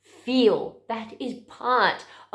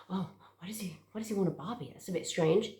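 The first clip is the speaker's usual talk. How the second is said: hushed aside, far softer than usual; unspoken inner thought; 3 semitones lower, 9 dB quieter, much faster than usual. Retold or imitated. Mother privately reacting to her boy's request, hushed. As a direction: say it under your breath, as if only thinking it. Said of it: "my reaction in my mind, obviously I didn't say this".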